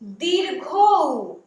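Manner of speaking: दीर्घ ऊ said slowly as "dirgho u", Bengali style; drawn-out Bengali "dirgho u" for दीर्घ ऊ; slow teaching demo of दीर्घ ऊ as "dirgho u"; Bengali vowel name. Shown as a demonstration. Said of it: "उसको क्या बोलेंगे".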